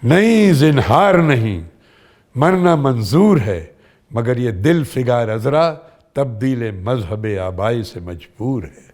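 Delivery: slow, measured theatrical recitation; Urdu stage dialogue. Shown as a demonstration. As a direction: open with a drawn-out, emphatic refusal, then let it sink. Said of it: "मैं आपको एक dialogue सुनाता हूँ". (उर्दू नाटक का संवाद, ठहर-ठहर कर)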